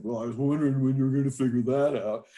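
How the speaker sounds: quick, snarky retort. Retold or imitated. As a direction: imitate a wife's snarky comeback. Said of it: "very snarkily".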